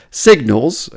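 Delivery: signals lifted and pushed, rising at the end; stress on signals. Shown as a demonstration. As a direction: land hard on signals, tune going up. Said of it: "emphasis on the word signals".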